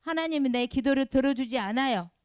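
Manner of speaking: loud, indignant mock complaint; resentful protest. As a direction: protest loudly as a disgruntled believer. Acting resentful believer quitting God.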